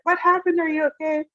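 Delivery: high-pitched worried questions; alarmed concern. Retold or imitated. Everyone around asking the weeping girl, high alarmed concern. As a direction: imitate anxious onlookers, voice jumping right up.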